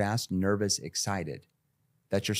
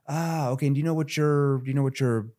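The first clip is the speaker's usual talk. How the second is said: higher, easy, genuinely curious greeting; 5 semitones higher than usual. Shown as a demonstration. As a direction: ask like you really want to know. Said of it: "Curious tone".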